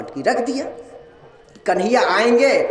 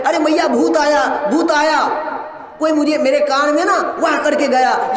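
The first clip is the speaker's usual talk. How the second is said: frightened shout; 5 semitones higher than usual. Acted. Gopi tells her fallen mother a ghost came, panicked shout. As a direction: shout it out like a spooked girl.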